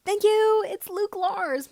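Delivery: high, loud burst of thanks; thrilled thanks, the name slow and proud; excited. Acted. Luke thanking Fighter for the contract, thrilled and loud.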